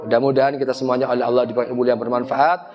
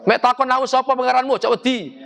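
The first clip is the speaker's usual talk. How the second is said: mock talqin reciter; 8 semitones higher than usual. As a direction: call out to the dead like a talqin reader. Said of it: "Lu ngawur ae".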